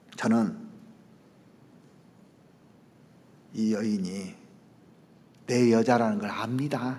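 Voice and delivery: very quiet, low, held-down voice. Acting out an imagined confession scene: quiet, low voice. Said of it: "조용히 얘기했어요. 목소리도 낮게".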